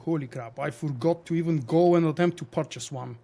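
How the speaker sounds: ordinary delivery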